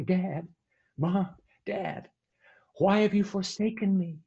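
put-on boy begging his leaving parents, high and pleading; child's plea. Child calling as parents leave.

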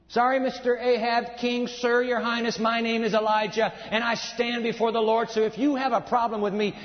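a bold prophet answering a king; Elijah to the king. Acted. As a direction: stand up to the king, defiant. Preacher voices Elijah to the king.

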